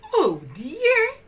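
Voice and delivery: nanny softening for the pups; kindly Nanny. A narrator's reading. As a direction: melt at the puppies' eyes. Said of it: "she said as she looked".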